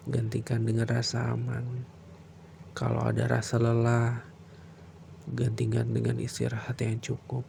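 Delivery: bedtime prayer. Acted.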